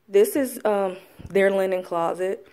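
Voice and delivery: winded from climbing the stairs; slightly breathless after the stairs; out of breath. Real, not acted. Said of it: "I'm out of breath".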